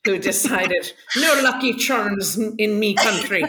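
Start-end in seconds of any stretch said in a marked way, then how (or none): 1.2-3.4 a hint of an angry Irishman; lightly voiced furious Irish man; mild mock angry Irish. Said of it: "very Irish, Irish man who was very, very angry".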